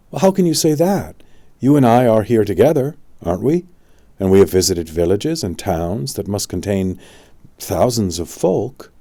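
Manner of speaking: put-on incredulous boy objecting; young Arthur protesting. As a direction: push back hard, a startled boy.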